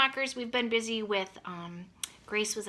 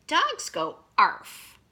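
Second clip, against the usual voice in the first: slow, louder coaxing; patient mother; 4 semitones higher, 6 dB louder, much slower than usual. Acted. Mother coaching George, slow and loud. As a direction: spell it out for a stubborn puppy. Mother teaching dog sounds.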